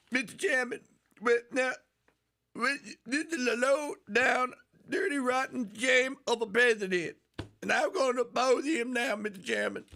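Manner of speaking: high mock congresswoman voice; lightly voiced impression of the congresswoman; a hint of Maxine Waters; imitating Maxine Waters. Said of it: "Let's hear some Marcine Waters".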